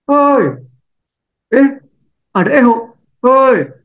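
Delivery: put-on high child's call into the valley. (anak kecil berteriak ke lembah)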